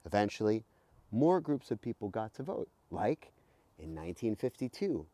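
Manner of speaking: put-on lively, bright read-aloud for kids; reading to children. Host reading a voting book to kids, lively read-aloud. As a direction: read it like a storybook to young listeners.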